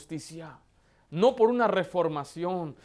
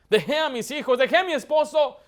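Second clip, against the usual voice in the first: builds from a raised voice to a loud, much higher cry; imitating a desperate woman crying out, rising to a peak; anguished outcry; 8 semitones higher, 8 dB louder than usual. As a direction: let her despair swell into a wail. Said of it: "decía ella".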